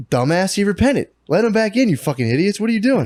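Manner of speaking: high, exasperated mock rant at the church; mock angry scolding. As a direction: bark it like a fed-up apostle. Paul scolding the Corinthians.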